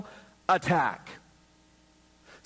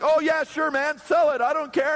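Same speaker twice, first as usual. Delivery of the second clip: higher, louder mock phone talk; loud phone chatter; 6 semitones higher, 3 dB louder than usual. Guy beside you in Starbucks on the phone, loud. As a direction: play the oblivious loud talker. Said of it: "He's like".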